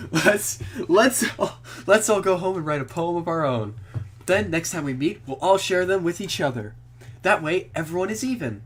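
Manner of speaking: put-on cheerful girl voice. Voicing Monika, higher.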